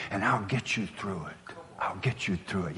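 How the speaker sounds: soft retold promise, dropping away; quiet reassurance. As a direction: gently imitate a mentor's reassurance.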